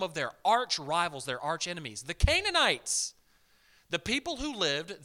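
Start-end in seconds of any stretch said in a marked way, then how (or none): 2.0-3.1 slow, high, loud and drawn out; drawn-out preacher's answer; emphatic answer. Real, not acted. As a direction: land the answer hard for the crowd.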